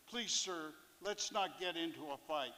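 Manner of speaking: a touch of abject pleading, lightly done. Retold or imitated. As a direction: gently beg him to back off. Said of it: "in a pleading, abject manner".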